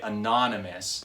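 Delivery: "anonymous" with the weight on "non"; stress on NON. Shown as a demonstration. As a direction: lean on the second syllable of "anonymous". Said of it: "I'm emphasizing the syllable non".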